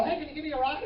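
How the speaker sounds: high-pitched mock old-timer asking; put-on old person's plea. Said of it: "Old people come up and go".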